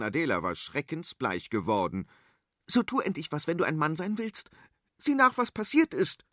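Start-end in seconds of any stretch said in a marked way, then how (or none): 2.7-6.2 mild command. Acted. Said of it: "herrschte sie ihren Bruder an".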